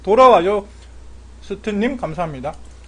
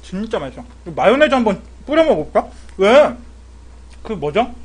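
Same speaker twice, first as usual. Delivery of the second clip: slurping hot noodles; talking while chewing; mouth full of noodles. Real, not acted. Seen 1: slurping noodles at 0.3–5.0, then chewing with full cheeks.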